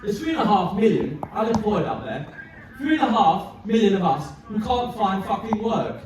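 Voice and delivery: acted, indignant political tirade; angry rant. Acted political rant from a film speech.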